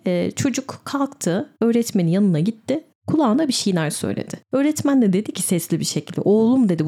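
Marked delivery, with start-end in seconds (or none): 6.2-6.7 a loud, raised call of "Oğlum"; retold shout. Teacher calling the boy out in front of class, loud. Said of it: "diye bağırdı böyle".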